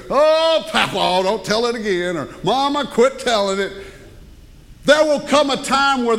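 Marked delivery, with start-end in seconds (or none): 0.1-2.2 hammed-up kid's protest; protesting grandchild. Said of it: "and they go". 2.4-3.7 lightly acted plea, a bit higher; mock exasperated kid; protesting child. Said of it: "and they go".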